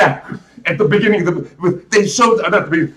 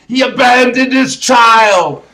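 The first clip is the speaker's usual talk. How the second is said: shouted, louder and slower, stressing abandoned; outraged shout; 4 semitones higher, 4 dB louder than usual. Real, not acted. Ranting about the movie's father, shouting it out. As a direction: yell it in disbelief.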